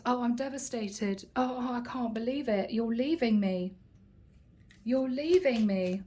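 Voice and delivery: hammed-up heartbroken wife; fake devastated. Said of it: "says Libra".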